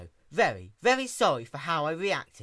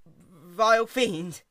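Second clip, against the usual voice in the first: slow, higher, louder terrified echo; 6 semitones higher, 8 dB louder, much slower than usual. Acted. Caramel repeating her insult, terrified and slow. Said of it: "Caramel stuttered".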